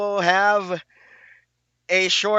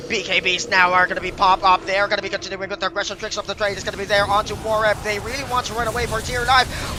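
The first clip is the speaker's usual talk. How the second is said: quick, driving esports casting; live play-by-play; 3 semitones higher, faster than usual. Acted. Caster calling a Dota teamfight for viewers, fast play-by-play. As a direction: keep calling the action as it happens.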